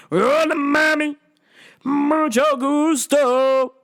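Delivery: put-on high, slow, flirty Spanish-accented greeting. Greeting the fighter flirtatiously, mock Spanish. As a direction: lay on a Latin lover charm.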